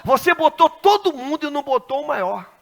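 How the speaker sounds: pushed up high and loud for emphasis. Shown as a demonstration. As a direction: hit it harder the second time, preaching. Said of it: "repeated louder".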